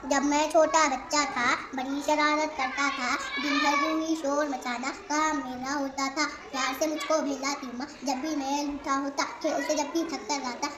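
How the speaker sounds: put-on softly recited children's verse; hushed, measured poem reading; poem recitation. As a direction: recite it quietly, line by line.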